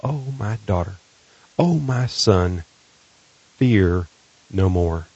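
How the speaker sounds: slow, hushed reassurance with long pauses; tender imagined whisper. Acted. Host imagines the Lord speaking to your heart, tender and slow. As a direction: let each phrase settle gently, fully voiced. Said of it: "imagine the Lord whispering that".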